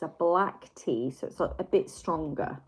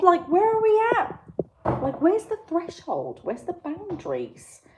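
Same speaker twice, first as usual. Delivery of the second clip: excited; 11 semitones higher, 9 dB louder than usual. Real, not acted. Excited high riffing on whiskey tea.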